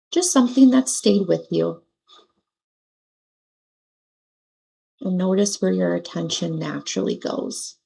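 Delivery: unhurried, pause-filled meditation guidance; guided meditation. Acted. Meditation teacher settling listeners into their seats and breath, gentle guidance. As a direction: guide them through it gently, leaving long pauses.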